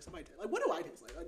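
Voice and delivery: talking through real laughter; amused laughing. Real, not acted. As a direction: crack up while wondering aloud. Laughs at book cliché of tastes.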